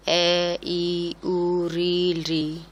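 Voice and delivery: each vowel clipped to one beat; short vowels. Shown as a demonstration. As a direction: say every vowel quick and short, one matra. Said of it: "ह्रस्व स्वर कहलाते हैं". (हर स्वर छोटा, एक मात्रा में)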